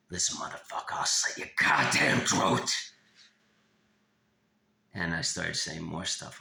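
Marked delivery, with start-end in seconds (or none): 0.1-2.7 harsh, forceful stage whisper, swelling louder; menacing whisper. Retold or imitated. Retelling a threat whispered in a child's ear, harsh whisper. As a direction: hiss the threat hard, almost without voice. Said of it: "whisper in his ear".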